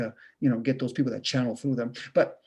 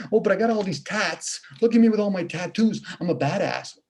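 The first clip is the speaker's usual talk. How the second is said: boastful mock tough guy, pitched higher; mock gangster bragging; 5 semitones higher than usual. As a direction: brag like a puffed-up wannabe gangster. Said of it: "A guy says, "I'm a gangster".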